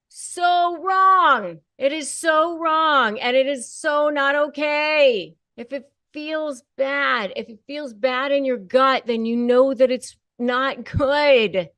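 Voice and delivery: loud and high, hammering each word; emphatic outburst. Real, not acted. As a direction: really let them have it. Urging viewers, rising to a peak.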